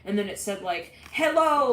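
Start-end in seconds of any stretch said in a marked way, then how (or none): 1.1-1.7 loudspeaker voice. Retold or imitated. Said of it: "with the voice on the loudspeaker".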